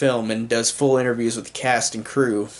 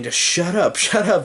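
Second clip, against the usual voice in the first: higher, laughing mock shut up; fed-up laughing jab, pitched up; exasperated audience; 4 semitones higher than usual. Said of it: "the audience is saying".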